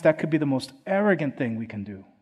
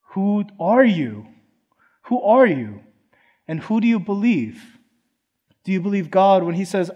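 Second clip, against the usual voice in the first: emphatic challenge; 5 semitones higher, 5 dB louder than usual. Acted. Preacher challenging the congregation.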